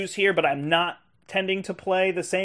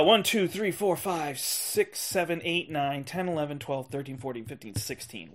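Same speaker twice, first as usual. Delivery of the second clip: fading count; 6 dB quieter than usual. Real, not acted. Counting the games, fading away.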